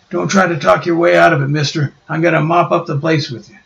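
a brute about to swing; furious Ben. Acted.

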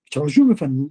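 meek whispered answer; whispered reply. Retold or imitated. Driver answering the bank manager, meek whisper. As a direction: whisper it humbly to the boss.

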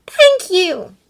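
heartfelt high thanks; grateful. A narrator's reading. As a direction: thank them with feeling, pitched high. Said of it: "Hermione breathed".

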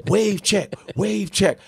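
imitating kids. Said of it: "they kept going".

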